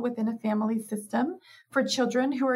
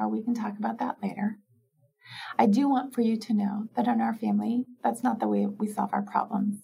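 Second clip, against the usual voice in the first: loving but firm talk. Shown as a demonstration. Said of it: "and you say".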